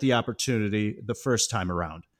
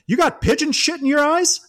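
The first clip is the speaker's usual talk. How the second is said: sudden furious outburst; 6 dB louder than usual. Retold or imitated. Coach yelling at the ref over a foul, furious high shout. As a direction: explode from calm into a high, loud yell. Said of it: "goes from zero to a hundred".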